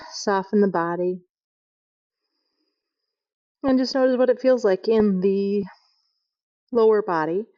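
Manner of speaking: guided relaxation. Acted. Yoga teacher guiding the class to rest in crocodile pose. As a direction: lead them into rest.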